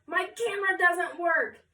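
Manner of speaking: high, loud panicked cry. Acted. Photographer panicking to the class, high loud panicked cry. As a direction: wail that the camera is broken.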